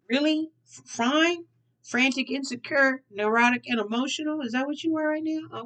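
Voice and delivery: high, incredulous sass; mock disbelief. Tarot reader teasing a viewer who claims to be fine, sassy disbelief.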